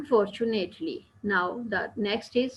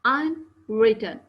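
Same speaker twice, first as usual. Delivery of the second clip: unwritten drawn out slowly and a bit louder; stressed for teaching; 4 dB louder, much slower than usual. Shown as a demonstration. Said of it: "the stress".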